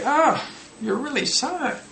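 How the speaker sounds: high, slow mock-sympathetic echo; hammed-up sympathy. Shown as a demonstration. Teacher hams up sympathy for student's sad news, pitched high and slow. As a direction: act it up, overdone pity. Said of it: "you can act it up a bit".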